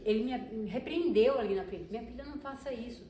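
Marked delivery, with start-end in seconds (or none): 1.9-3.0 gentle reproach. Retold or imitated. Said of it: "E não levantou a voz pra mim".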